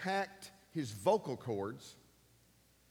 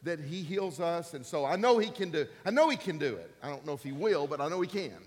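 mildly emphatic conviction; 5 dB louder than usual. Retold or imitated. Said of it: "he's saying".

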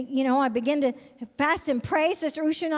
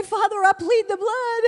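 fervent; 8 semitones higher, 5 dB louder than usual. Retold or imitated. Retelling pleading the blood.

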